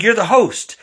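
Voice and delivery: imitating an overexcited boss; excited boss pitch. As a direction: sell him the dream job with rising excitement. Boss adds the clincher.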